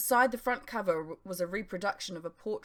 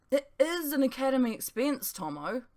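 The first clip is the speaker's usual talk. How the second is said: half-hearted grumble; 7 semitones higher, 3 dB louder than usual. A narrator's reading. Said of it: "he grumbled".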